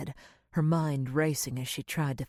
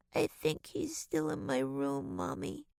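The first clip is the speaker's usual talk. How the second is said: hushed fear of the room; scared child. A narrator's reading. Frightened child warns mother.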